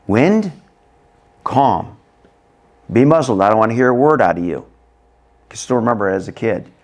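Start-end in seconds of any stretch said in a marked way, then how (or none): 0.1-4.6 firm orders, then a quick scolding; stern command. Acted. Jesus speaking to the wind, stern command. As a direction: silence it with authority. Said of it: "This is what Jesus is saying to the wind".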